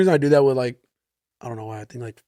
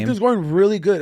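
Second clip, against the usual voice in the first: slightly higher, bright service voice; polite higher-pitched phone voice; customer service voice; 4 semitones higher than usual. Shown as a demonstration. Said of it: "a little higher pitch voice".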